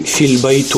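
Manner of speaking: فی البیت ending in -u, "fil-baytu"; wrong case ending. Shown as a demonstration. Teacher asks why we didn't say it so, wrong case ending. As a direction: say فی البیت with a final u sound. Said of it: "چرا ما نگفتیم".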